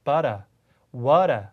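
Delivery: Australian "water" with a flapped T and no R, "wara"; Australian accent. Shown as a demonstration. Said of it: "미국 사람들처럼 하고 R 사운드는 영국 사람들처럼".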